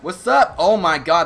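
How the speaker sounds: loud hype bro call; frat bro. Real, not acted. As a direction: shout it like a hyped bro. Hype after a kill.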